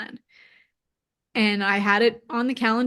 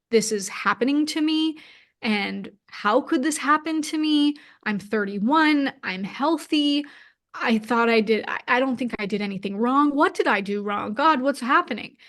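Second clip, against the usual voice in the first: lightly replaying her own panicked disbelief; victim mode; 2 semitones higher than usual. Retelling to the interviewer her victim-mode spiral, mild self-pitying wail. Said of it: "I definitely went into victim mode".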